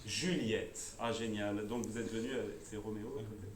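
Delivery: low, soft flirtatious murmur; playful crooning, dropped low and soft; mock seductive. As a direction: chat her up in a low, hushed voice. Flirting with audience member Juliette.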